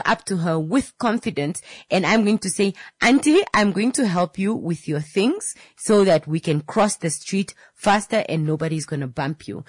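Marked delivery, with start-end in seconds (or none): 3.0-9.6 confident helper. Acted. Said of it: "say it with confidence".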